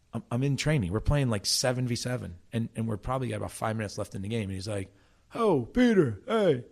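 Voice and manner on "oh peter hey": much higher, louder, sing-song teammate calling Peter; hammed-up Italian teammate pleading with his captain; little Italian guy. Teammate Frankie begging Peter to stay, in a high, louder Italian-guy voice. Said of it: "Frankie is a little Italian guy".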